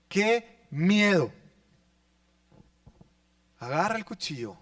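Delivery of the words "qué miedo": breathless fear. Real, not acted. Knife scene, preacher reacts.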